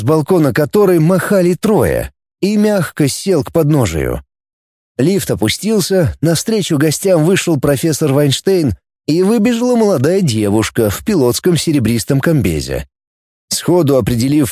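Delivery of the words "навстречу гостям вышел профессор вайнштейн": ordinary delivery, nothing marked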